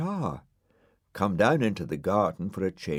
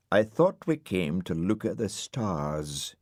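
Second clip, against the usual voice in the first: huffy. Acted. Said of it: "said Dougal huffily".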